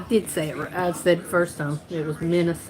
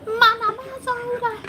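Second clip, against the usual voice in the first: calling out. Real, not acted. Calling out to someone.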